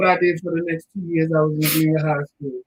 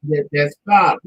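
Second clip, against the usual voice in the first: much softer, gentle reassurance; reassuring; 3 dB quieter than usual. Retold or imitated. Family calming niece over a B, softly. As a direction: talk her down quietly. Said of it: "And we're like".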